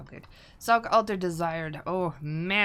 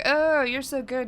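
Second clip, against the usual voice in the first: higher, louder, slow cooing praise; doting owner cooing at the cat; mock sweet lady voice; 6 semitones higher, 8 dB louder, slower than usual. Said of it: "she's all like".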